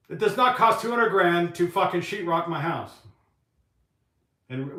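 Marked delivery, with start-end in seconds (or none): 0.1-2.9 frustrated rant. Real, not acted. Ranting about a contractor's bid.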